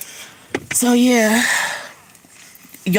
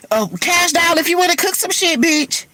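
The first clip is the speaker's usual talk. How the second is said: excited calling out; 6 semitones higher than usual. Real, not acted. Calling out to a rapper.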